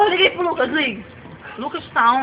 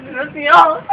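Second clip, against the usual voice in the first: tearful plea; 2 semitones lower, slower than usual. Acted. Mother pleading with policeman.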